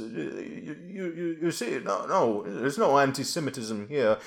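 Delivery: posh Tory voice. Retold or imitated. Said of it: "how about just posh Tory voice?".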